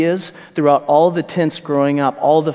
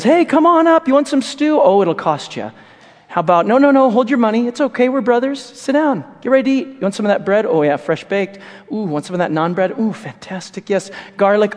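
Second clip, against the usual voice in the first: high, coaxing salesman voice; hammed-up sly salesman pitch; Jacob the con man; 5 semitones higher than usual. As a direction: tempt your brother with the stew. Jacob voiced selling the stew.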